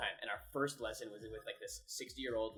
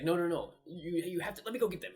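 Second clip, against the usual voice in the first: higher, louder, pushy mock lady; insistent Jamaican lady; 6 semitones higher, 6 dB louder than usual. Missionary retelling the lady demanding the papers, pushy mock voice. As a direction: play the bossy lady who takes over.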